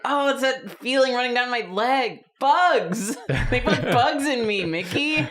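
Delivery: lightly voiced frantic Mickey; mock panicked Mickey. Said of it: "You're just like".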